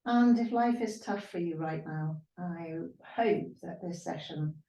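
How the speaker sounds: gentle yoga teacher voice with long pauses; guided meditation. Real, not acted. Yoga teacher wishing students peace, guided meditation.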